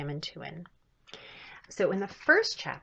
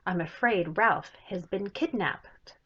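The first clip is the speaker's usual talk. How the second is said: dramatic alarm; 2 semitones higher, 4 dB louder than usual. Acted. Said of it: "Snow White cried".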